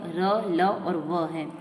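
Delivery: र ल व sounded slowly one by one; sounding out letters. Shown as a demonstration. Teacher to class, sounding semivowels slowly. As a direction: say each semivowel deliberately. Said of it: "अंतस्थ जो वर्ण है वह य".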